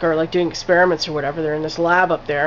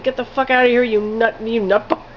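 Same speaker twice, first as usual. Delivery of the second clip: retold freaking out; 4 semitones higher than usual. Trapped woman yells at the killer on the beach, higher mock anger. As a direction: toss it off as a light mock outburst. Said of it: "she's still freaking out".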